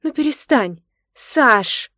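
high, loud plea to stop; begging. Acted. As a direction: plead with him, flustered. Wife begs husband to stop.

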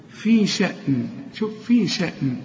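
"في شأن" with the final n plain, not hummed; no nasal hold. Shown as a demonstration. Teacher demonstrating the ending to students, no nasal hold. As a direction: end "شأن" on a clear short n. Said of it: "لكن لا تغن".

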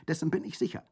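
loud certainty. A narrator's reading. Colomba insists on Tommaso's escape, loud. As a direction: stress on bin, loud.

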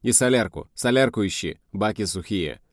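moderately loud field command; shouted orders. Acted. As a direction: give orders from up on the armour. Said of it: "крикнул командир".

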